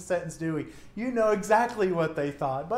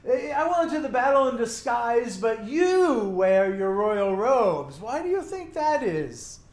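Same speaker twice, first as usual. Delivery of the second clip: mock king; 3 semitones higher, 5 dB louder than usual. Mocking king's foolish plan.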